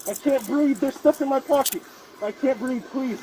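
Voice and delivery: pinned man begging the officers; desperate pleading. Real, not acted. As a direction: beg for air while pinned. Man pinned down after tasing.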